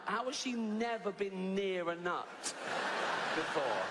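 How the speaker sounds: high-pitched, baffled outrage; comic indignation. Acted. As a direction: rant in exasperated disbelief, stretching the words. Fuming rant about allergic passenger.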